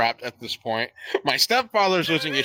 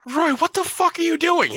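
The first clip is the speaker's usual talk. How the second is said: mother snapping at the uncle, a touch higher; mom scolding; 9 semitones higher than usual. Retold or imitated. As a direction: scold your brother in disbelief. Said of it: "and she goes".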